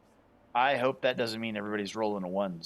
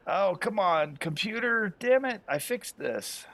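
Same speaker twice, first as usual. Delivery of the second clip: frustrated; 11 semitones higher, slower than usual. Real, not acted. Frustrated at computer freezing.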